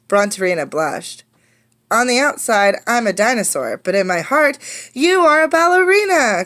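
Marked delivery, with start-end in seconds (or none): 1.9-6.4 crying out. Acted. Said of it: "cried Clara and Jack".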